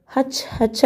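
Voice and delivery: two quick breathy sneezes; playful read-aloud sneeze; sneezing. A narrator's reading. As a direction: sneeze twice, mouth half open. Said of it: "అంటూ తుమ్మాను".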